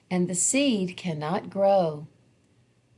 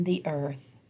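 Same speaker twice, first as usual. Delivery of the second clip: soft unvoiced whisper; 3 semitones lower, 5 dB quieter than usual. A narrator's reading. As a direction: breathe it like a lullaby. Seeds going to sleep.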